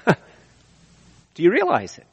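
"Do you realize it?" slow, realize stretched; slow searching question. Shown as a demonstration. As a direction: realize drawn out and falling. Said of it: "That's the two senses".

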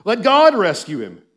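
loud, high, jeering recitation; scornful mockery thrown out in bursts; mocking. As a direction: taunt the sufferer from the crowd. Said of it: "it's a mockery".

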